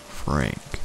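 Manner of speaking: quiet, low, lightly voiced monster; a soft hint of monster voice; deep crackly monster. A narrator's reading. Monster gives the child its name, quietly deep and crackly. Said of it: "deep and crackly".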